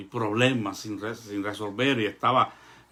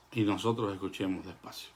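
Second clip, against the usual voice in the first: hushed phrase; 3 semitones lower, 6 dB quieter, faster than usual. Shown as a demonstration.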